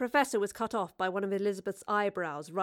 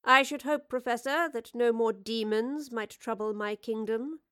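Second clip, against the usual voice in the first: regal queen voice; 3 semitones higher than usual. Acted. Queen addresses the Professor.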